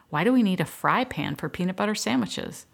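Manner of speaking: put-on squawking girls. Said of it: "the girls squawked".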